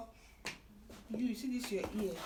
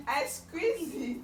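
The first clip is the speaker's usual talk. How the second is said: slow, louder, stretched teasing threat; drawn-out teasing threat; 3 semitones higher, 6 dB louder, slower than usual. Acted. Mother teasing toddler with a slow mock threat. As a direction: tease the child by drawing it out.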